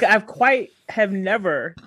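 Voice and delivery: mock-formal denial. Real, not acted. Mock formal answer to question.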